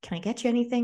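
lightly voiced caring girl calming a crying friend; imitating gentle comfort. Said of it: "was like".

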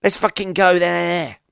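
high, slow squeaky moth excitedly spotting a light. Retold or imitated. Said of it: "start going".

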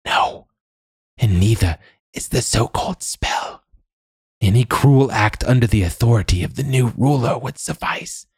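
put-on high old woman's voice; knowing old crone. A narrator's reading. Old woman explaining the law to the man, high crone voice.

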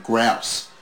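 loud, rising disbelief on the repeat; imitated puzzled audience; baffled crowd echo. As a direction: echo it, puzzled, pitching up sharply. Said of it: "we're all going".

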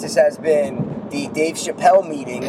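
slow, deliberate podcast outro; unhurried show-closing line; slow sign-off. Acted. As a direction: draw the sign-off out like a closing announcer. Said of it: "You did it so great".

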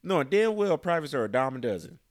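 scornful leaders. Retold or imitated. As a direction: sneer like a dismissive officer.

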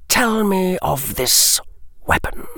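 a languid lord dropping a name; Lucius's voice. Acted. Lucius demands.

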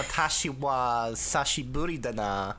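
mock Brooklyn accent sliding into Japanese. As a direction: play at Brooklyn talk with Japanese words. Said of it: "Japanese Brooklyn accents".

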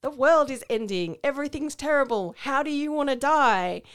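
Idris Elba. Retold or imitated. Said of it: "to be like".

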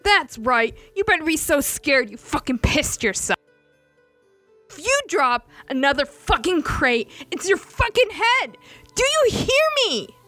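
staged threat shouted at Ilya for show; shouting. Acted. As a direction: bellow it for the whole ship to hear.

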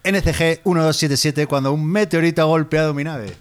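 hammy plea for rescue over the radio; melodramatic distress call. Acted. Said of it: "¿Cómo, cómo te gusta el melodrama?".

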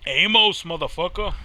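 loud, high call of the name; excited yell. Real, not acted. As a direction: shout his name in excitement. Game character appears, yelling.

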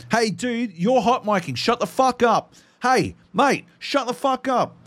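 high-pitched, fed-up plea for silence; retold exasperated telling-off. Aussie player to hot-micing Americans, retold exasperated telling-off. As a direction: tell them off, voice pushed up high.

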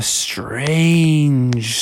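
"strange" held out with suspense; drawn-out STRANGE. A narrator's reading. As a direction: stretch out "strange". Drawn-out word in story telling.

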